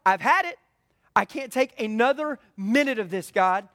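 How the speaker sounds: a preacher acting out an angry, honest prayer; exasperated prayer. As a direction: let the frustration spill out at God. Venting frustration to God.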